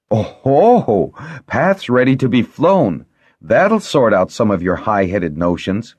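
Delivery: high, gleeful taunt; triumphant teasing, opening on a loud oh-ho-ho; crowing. A narrator's reading. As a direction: crow over someone's dismay. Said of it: "He couldn't resist crowing at her dismay".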